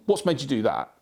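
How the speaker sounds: blunt, accusing question; confrontational. Shown as a demonstration. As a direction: demand it so it gets their back up. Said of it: "in that tone".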